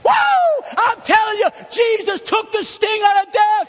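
put-on shouted high and loud, old-time revival style; old-timey preaching. Preacher shouting old-timey preaching to the church, high and loud. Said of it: "They call this old-timey preaching".

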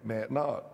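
"Matt" for might, rhyming with cat; "Matt", a short a in place of the long i; East Tennessee pronunciation. Shown as a demonstration. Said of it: "They say Matt".

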